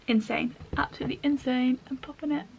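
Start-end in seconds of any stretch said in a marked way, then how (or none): 1.9-2.4 lightly put-on northern English accent; kinda northern accent. Make-up vlogger playing about to viewers, in a loose northern accent. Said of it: "Don't know what accent it is, it's kinda northern".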